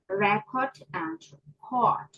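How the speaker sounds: "Record" stressed on REC, then "record" stressed on CORD, slowly; stress shift demo. Shown as a demonstration. Teacher contrasting noun and verb stress for the class, slowly. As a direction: let the stress jump to the second syllable. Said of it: "stress in English impact meaning".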